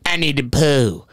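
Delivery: slow, drawn-out voice of a bar regular; Ricky imitation. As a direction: imitate a childlike old regular, taking it slowly. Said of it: "looks at me and goes".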